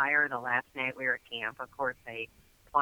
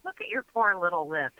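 imitated sympathy; 5 semitones higher than usual. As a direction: fuss over a friend's small injury. Gal pitying a sunburnt lip, retold.

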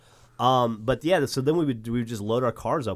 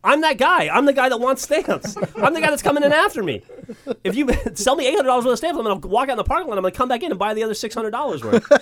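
high, loud laughing argument; Bernie insisting; 14 semitones higher, 6 dB louder than usual. Retold or imitated. Bernie arguing with the stamp clerk, gleeful and loud. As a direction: argue your case with gleeful bravado. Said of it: "And Bernie goes".

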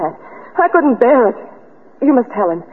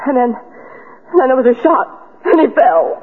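tearful. Acted. Selma confesses the shooting, distressed.

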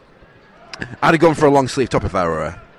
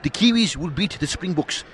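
attempted Kiwi accent sliding South African; New Zealand accent with a South African slip. Shown as a demonstration. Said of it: "this is a good New Zealand accent".

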